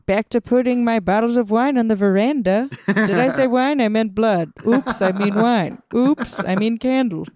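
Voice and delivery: put-on a lightly sly old witch; sinister witch voice. Witch slips about blood.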